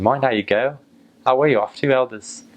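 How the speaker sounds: chatty Norfolk local calling out; light Norfolk accent, relaxed and friendly. Retold or imitated. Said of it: "That was Norfolk".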